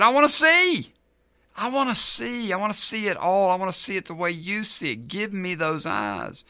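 high, loud, pleading cry; impassioned cry. Acted. Blind Bartimaeus begging Jesus for sight, crying out. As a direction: cry it out urgently, pitched high, easing slightly.

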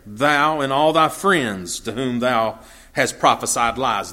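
slow, solemn King James reading; measured Bible reading aloud; scripture reading. Acted. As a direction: read the verse gravely and unhurried.

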